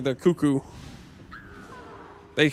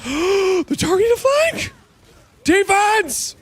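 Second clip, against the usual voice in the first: high alarmed yell; panicked shout; 4 dB louder than usual. Real, not acted. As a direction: call the team to defend. Panicked team call in battle.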